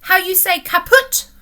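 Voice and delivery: put-on lightly Russian-accented, searching for the word; a foreign sailor groping for English. A narrator's reading. Russian captain fumbles for word.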